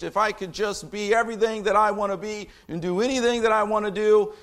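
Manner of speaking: sarcastic imitation, fired up; mock attitude. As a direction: mockingly voice what the critics claim. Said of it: "That's the attitude".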